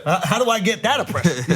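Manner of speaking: joking question broken by a laugh. Real, not acted. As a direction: laugh while asking. Joke, laughing.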